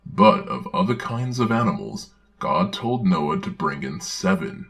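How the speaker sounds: put-on earnest children's-book reading voice; storybook narration. Narrator reading a children's Bible story aloud, earnest storybook narration. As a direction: read it like a Sunday school storybook.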